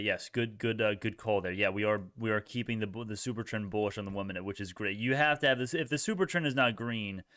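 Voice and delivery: ordinary delivery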